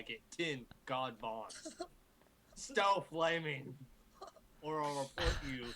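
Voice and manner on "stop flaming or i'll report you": mock author's note. Reading author's note mockingly.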